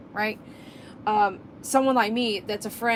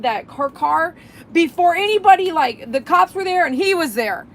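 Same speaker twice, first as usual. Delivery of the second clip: louder and higher, fired up about tow trucks; heated rant; 5 semitones higher, 5 dB louder than usual. Real, not acted. Vlogger warning viewers about city tows, fired up. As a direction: preach it like you're fed up.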